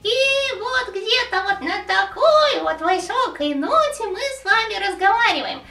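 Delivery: put-on high, nasal-placed old man's voice; shaky old voice. Shown as a demonstration. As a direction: speak up in the nose like an old man. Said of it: "голос где-то наш фокусируется больше в нос".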